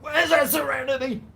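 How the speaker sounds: high, loud call. Real, not acted. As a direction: call the dog from afar. Calling out for the dog.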